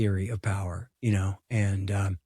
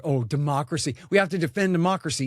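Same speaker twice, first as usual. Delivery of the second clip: sarcastic, higher, louder and fast mock earnestness; mocking Washington insiders; 5 semitones higher, 4 dB louder, faster than usual. Mocking the Washington consensus on democracy, sarcastic. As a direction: parrot their pious slogan with scorn. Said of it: "They don't care".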